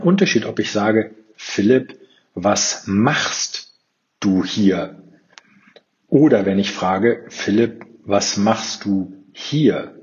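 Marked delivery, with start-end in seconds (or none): 1.4-5.0 Betonung auf „machst“, das Wort „machst“ steigend hervorheben; stress on machst. Shown as a demonstration. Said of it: "Du musst halt einfach nur die Betonung auf andere Wörter legen". 7.3-9.9 „hier“ slow and weighted, falling at the end; stress on hier. Shown as a demonstration. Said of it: "Du musst halt einfach nur die Betonung auf andere Wörter legen".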